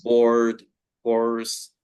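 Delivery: Bored and course with the R sounded; American accent, R clearly in. Shown as a demonstration. Teacher showing the American accent on two words. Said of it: "Americans would stress the R".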